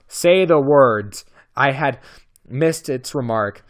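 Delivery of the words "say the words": slow, louder command. Acted. Beast in the dark demands the newcomer say the words, slow and louder. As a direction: demand it slowly, like an order. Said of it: "in a louder tone".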